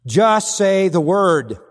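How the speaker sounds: loud, slow proclamation of Just say the word; proclaimed. Shown as a demonstration. Preacher proclaiming the centurion's words loudly and slowly. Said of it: "This is his great faith".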